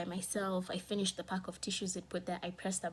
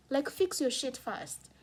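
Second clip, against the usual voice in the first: slow, emphatic, louder; angry demand; 6 semitones higher, 4 dB louder, slower than usual. Real, not acted. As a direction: lay it down word by word. Venting at mother.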